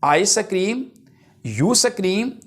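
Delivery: very slow, phrases lifting at the end; drawn-out classroom chant; slow rhyme recitation. Shown as a demonstration. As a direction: recite the rhyme piece by piece, long pauses. Reciting rhyme as alliteration example.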